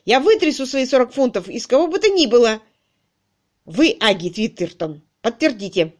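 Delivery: raging yell. A narrator's reading. Crutchley keeps raging.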